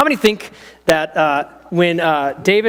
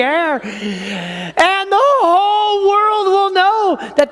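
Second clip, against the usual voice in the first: put-on high-pitched odd voice of young David; weird small-boy voice; 7 semitones higher than usual. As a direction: squeak it out like a small brave boy. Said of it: "He's gonna have a weird voice".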